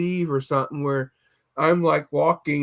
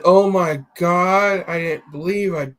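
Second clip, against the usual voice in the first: moaning. Retold or imitated. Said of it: "all I heard was moaning".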